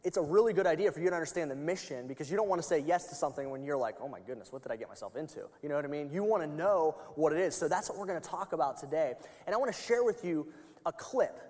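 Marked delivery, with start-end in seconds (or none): 4.0-5.5 dismayed. Pretend. Imagined newcomer's dismay.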